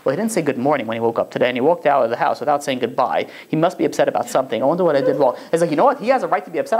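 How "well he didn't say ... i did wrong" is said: low, lightly acted brooding; mock worried inner monologue, pitched low; overanalyzing spouse. Wife brooding over a missed good morning, lightly fretful. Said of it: "they overanalyze every situation".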